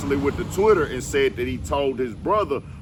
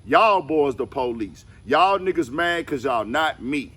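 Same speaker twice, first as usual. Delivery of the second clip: emphatic, raised-pitch quoting voice; forceful statement read-out; 4 semitones higher, 4 dB louder than usual. Retold or imitated. Reading out a rapper's rebuttal to the rat narrative, forcefully. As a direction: read the rebuttal out higher and louder.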